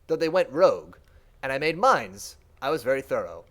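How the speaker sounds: a lightly voiced creature boasting mildly; a lightly voiced mind reports its defenses to the Shaper; proud servant mind.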